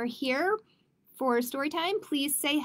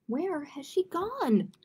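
higher, drawn-out question; a touch of storybook dismay; mild cry of dismay; 5 semitones higher than usual. Acted. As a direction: cry out slowly, pitched up. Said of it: "cried Duck".

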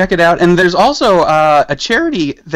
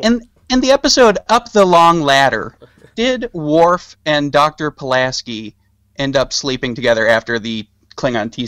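nerd voice. Pretend. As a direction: ask it like an eager trivia nerd. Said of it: "I'm gonna put on my nerd voice".

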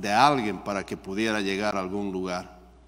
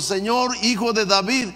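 much higher, louder desperate cry; raised voice; 10 semitones higher, 3 dB louder than usual. Retold or imitated. Preacher voicing Bartimaeus raising his voice to Jesus, high loud cry. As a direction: throw the plea out at the top of the voice. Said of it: "más levantó la voz".

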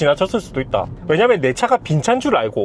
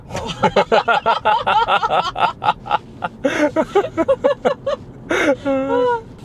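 high rising laughter; long laugh; 13 semitones higher than usual. Real, not acted. Laughing at being stared at.

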